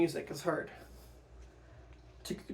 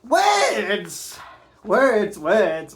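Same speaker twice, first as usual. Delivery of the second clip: loud scornful words; 6 dB louder, much slower than usual. Acted. Hamlet mocking answer.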